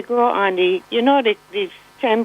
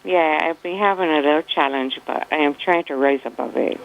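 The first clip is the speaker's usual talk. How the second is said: just-woke-up morning voice; 5 semitones lower than usual. Real, not acted. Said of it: "you didn't sound quite yourself".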